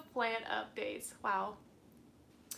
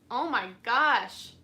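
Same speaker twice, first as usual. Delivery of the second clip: excited gasp; 10 dB louder, slower than usual. Real, not acted. Reacting to a viewer's comment.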